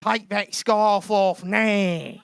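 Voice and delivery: hammed-up football fan confronting someone; home fan's mock shout. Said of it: "the guy comes up and he goes".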